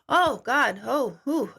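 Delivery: acted winded reaction; retold breathless shock. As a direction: blow out air as if stunned. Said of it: "it took his breath away".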